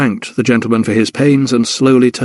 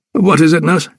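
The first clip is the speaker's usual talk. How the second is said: put-on old doctor; 5 semitones higher than usual. Kindly old doctor asks.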